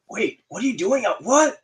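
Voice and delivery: rising to a high, startled what; baffled what. Retold or imitated. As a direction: spiral up into confusion. Athlete baffled, asks again.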